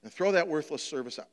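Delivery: preacher reading the story of the talents; scripture reading. Acted. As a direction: read the parable to the church. Reads the parable aloud.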